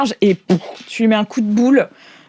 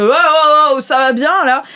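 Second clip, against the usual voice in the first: louder and higher, a taunting guard; mocking guard; 5 semitones higher, 5 dB louder than usual. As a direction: toss it off as a cocky guard, raised and teasing. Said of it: "il fait".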